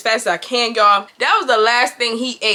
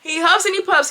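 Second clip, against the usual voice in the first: higher-pitched rhyming lilt; storybook cadence; 5 semitones higher than usual. Retold or imitated. Woman describing her date's huffing, in storybook cadence. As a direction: recite it like a picture-book rhyme. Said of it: "sounding like a damn Doctor Seuss book".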